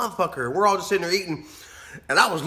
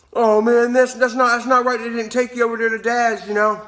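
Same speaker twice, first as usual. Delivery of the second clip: mock sympathy; 6 semitones higher than usual. Imitates sympathetic viewers.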